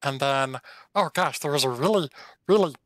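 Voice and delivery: lightly voiced chatty fox; earnest little animal explaining itself; fox in clean voice. Fox reports the big snake to his friend, lightly voiced and earnest. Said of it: "I'm gonna do this in the clean voice".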